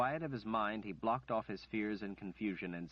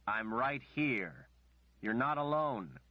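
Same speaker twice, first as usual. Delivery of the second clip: urgent; 4 semitones higher, 4 dB louder, slower than usual. Acted. Richard insists.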